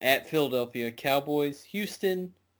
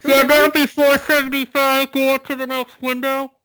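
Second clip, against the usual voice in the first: shouting; 14 semitones higher, 11 dB louder than usual. Real, not acted. Yelling at a computer screen.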